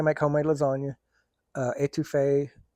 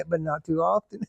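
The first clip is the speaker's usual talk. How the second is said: put-on Cajun accent; 2 semitones higher than usual. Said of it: "a real Cajun talk".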